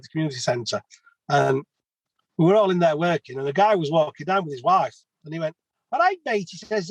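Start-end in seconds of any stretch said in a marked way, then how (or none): 5.9-6.5 much higher, mock passer-by greeting; crappy put-on accent. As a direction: play the bloke on the street, pitched way up. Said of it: "Sorry about my crappy accent".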